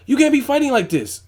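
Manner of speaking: high, loud, imitated scolding; exasperated mock yell at a fighter; pissed-off cornerman. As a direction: holler it like an angry trainer between rounds. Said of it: "he got pissed".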